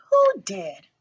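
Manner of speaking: hushed, breathy whisper; whispered question. A narrator's reading. Coraline whispering to Miss Mink. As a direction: whisper it, half afraid. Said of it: "asked Coraline".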